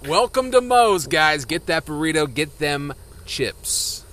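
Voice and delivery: high, loud shouted welcome, last word drawn out; restaurant staff holler. Retold or imitated. Co-host mimicking Moe's staff greeting, hammed-up high holler.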